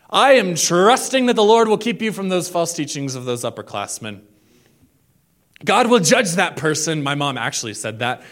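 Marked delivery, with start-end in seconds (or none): 0.1-7.0 loud, pointed motherly warning; a hint of a stern mom lecturing. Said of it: "every mother has said this to her middle school kid".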